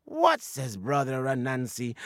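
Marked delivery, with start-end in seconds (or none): 0.0-0.4 surprised. Acted. Anansi indignant at Chicken's doubt.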